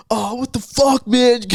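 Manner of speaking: high-pitched mock outcry; high, exasperated retold yelp; retold dismay. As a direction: cry out like a kid who just crashed. Retelling friend's upset after crash.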